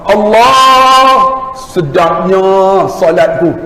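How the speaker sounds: high, drawn-out sigh of pleasure, then slow; savouring delight. Acted. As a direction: relish every word as if tasting it. Savouring the joy of prayer. (nikmat yang dihayati, tinggi dan perlahan)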